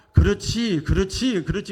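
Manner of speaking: loud, eager affirmation; excited "that's right". Retold or imitated. Preacher acting out inner joy, excited. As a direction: cheer yourself on with new strength.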